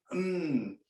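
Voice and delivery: slow, pleased hum of enjoyment; savoring coffee. Retold or imitated. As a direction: savor each word like good coffee. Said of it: "like that".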